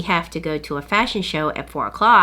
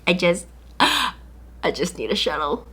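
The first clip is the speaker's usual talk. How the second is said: mock scared; 4 dB quieter, slower than usual. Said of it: "I'm really nervous and scared".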